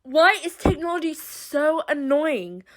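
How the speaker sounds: fed-up rhetorical question; exasperated. Acted. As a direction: vent annoyance at a useless gadget. Acted rant at failing device.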